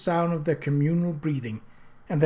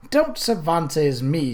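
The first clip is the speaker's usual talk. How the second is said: tart; slower than usual. Acted. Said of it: "she said tartly".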